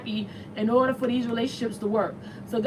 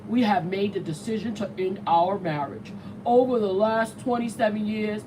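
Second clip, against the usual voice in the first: lightly lowered, a touch-off voice reading the statement; Bill Gates voice; 3 semitones lower than usual. Retold or imitated. Host reads the divorce statement as Bill Gates, lightly lowered. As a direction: read it like a mild Bill Gates take, a bit lower. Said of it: "that's my Bill Gates voice".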